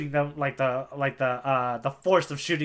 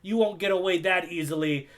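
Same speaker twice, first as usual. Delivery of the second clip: Buggy; 5 semitones higher than usual. Retold or imitated. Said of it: "and Buggy goes".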